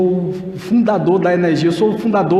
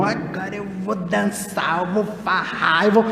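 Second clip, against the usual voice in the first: carefree reveler; 5 dB quieter than usual. Retold or imitated. Revelers before carnival quoted.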